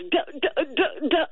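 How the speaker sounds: retold stuttering, stuck on one syllable; imitating speechless terror. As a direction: mimic someone too scared to form words. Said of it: "because she was terrified".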